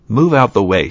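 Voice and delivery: rude order. Acted. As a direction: push them aside with your voice. Rude stepsister barging in.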